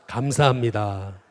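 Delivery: preacher leading a call-and-response; slow call to repeat. Shown as a demonstration. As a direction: declaim it slowly so everyone can repeat it. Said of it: "또 한번 따라해 보겠습니다".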